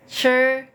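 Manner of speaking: "sure" as a careful curled-tongue syllable; "sure" with teeth closed and lips slightly pushed out; demonstrated retroflex zh. Shown as a demonstration. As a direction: say "sure" as Mandarin zhi, teeth together. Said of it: "dikit dimonyongin gitu ya bibirnya".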